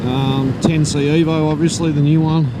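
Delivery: muffled under roaring wind; talking inside a motorcycle helmet. Real, not acted. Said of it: "I can hear a hell of a lot of wind noise in my helmet".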